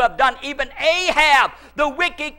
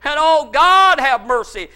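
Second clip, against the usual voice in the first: crying out for mercy; 2 semitones higher, 4 dB louder than usual. Retold or imitated. Preacher re-enacting his night of prayer, crying out for mercy. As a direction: cry out to God, then ease off. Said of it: "all night I cried out for mercy".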